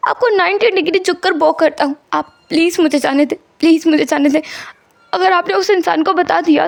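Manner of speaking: lightly acted anxious begging; pleading patient. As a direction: plead for your mother's sake. Wang begs doctors to release him.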